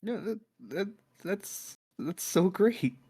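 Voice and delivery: choked-up, stammering gratitude; acted verge of tears; tearing up. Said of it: "he starts to tear up".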